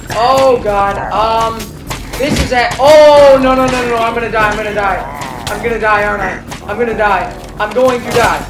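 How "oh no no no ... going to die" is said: panicked. Real, not acted. About to die in game.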